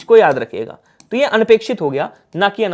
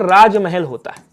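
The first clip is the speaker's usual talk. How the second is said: slowed teaching demo; 3 semitones lower than usual. Shown as a demonstration. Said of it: "क्या होता है बोलो sir?".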